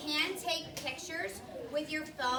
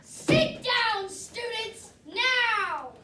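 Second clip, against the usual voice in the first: stern command; 7 semitones higher, 8 dB louder, much slower than usual. Acted. Strict teacher commands.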